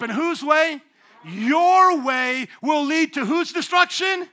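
loud, high preacher call to the crowd; loud call-and-response. Real, not acted. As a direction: rouse the room, make them answer. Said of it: "Come on, say it like you're up".

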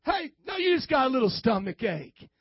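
easygoing doctor with falling reassurance; Doctor Feelgood. Acted. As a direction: brush off the patient's worry, soothingly. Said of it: "Doctor Feelgood doesn't want to rattle your cage".

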